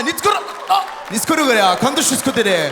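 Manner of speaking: loud straining mock Japanese, dropping in pitch; constipated Japanese parody easing off; mock Japanese, strain then relief. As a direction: push out pretend Japanese until it gives way. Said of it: "exactement quand la crotte passe".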